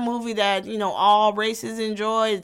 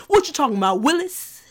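sitcom quote; 4 semitones higher, 4 dB louder than usual. Retold or imitated. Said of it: "quote things like".

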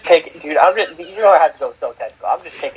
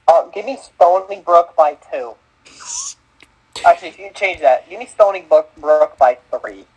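put-on light Boston accent on Stony Brook; Massachusetts accent. Host teases a podcast cohost's pick in a mild Massachusetts accent. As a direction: give the pick with a hint of Boston vowels. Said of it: "he had a Massachusetts accent on that one".

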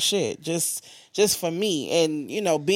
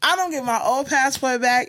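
outraged; 9 semitones higher than usual. Real, not acted. Furious at passport office.

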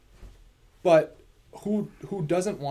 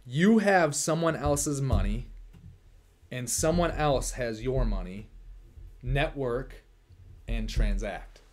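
slow, deliberate, word by word; over enunciating; 4 dB louder, slower than usual. Shown as a demonstration. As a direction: spell it out slowly for a beginner. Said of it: "let me say this really slowly".

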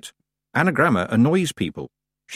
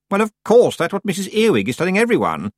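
put-on higher, louder self-important young witch; haughty Anagramma, settling down; 10 semitones higher, 5 dB louder than usual. A narrator's reading. Anagramma passing on what Missus Earwig says, haughty. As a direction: pronounce it loftily in a high voice.

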